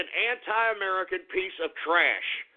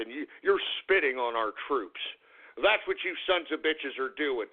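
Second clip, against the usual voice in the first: seething; 5 semitones lower than usual. Acted. Ranter accusing voters of spitting on troops, low seething scorn. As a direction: drop the voice and sneer out the accusation. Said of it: "I'm a little upset and I'm a little angry".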